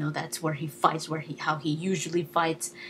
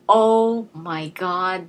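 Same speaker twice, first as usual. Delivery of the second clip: excited gasp; 6 dB louder, much slower than usual. Retold or imitated. Excited reaction to goggles.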